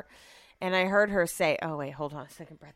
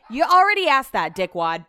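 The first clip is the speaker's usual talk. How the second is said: mock snap; 4 semitones higher, 8 dB louder than usual. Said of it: "I wanted to be like".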